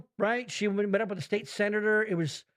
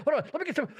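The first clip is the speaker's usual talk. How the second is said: jazzed doctor; 7 semitones higher, much faster than usual. Retold or imitated. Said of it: "He's like".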